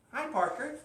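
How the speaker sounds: high, lilting hello; high-pitched greeting. Real, not acted. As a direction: greet Parker high up in your voice. Greets three Parkers, each differently.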